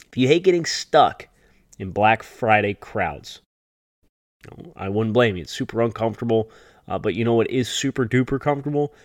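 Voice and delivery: upbeat sponsor read; holiday sale ad. Acted. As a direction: read it like a radio ad. Host reads sponsor ad.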